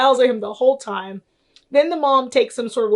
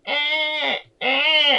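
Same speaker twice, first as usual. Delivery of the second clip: imitated baby whimper; 4 semitones higher than usual. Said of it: "it's just like".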